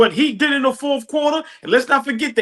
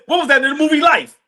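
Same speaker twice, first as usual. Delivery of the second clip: laughing; 5 semitones higher than usual. Retold or imitated. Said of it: "He said".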